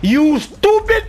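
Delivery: high, slow drawn-out taunt; sneering jab at the game; mock insult. Real, not acted. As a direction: stretch the insult out high and scornful.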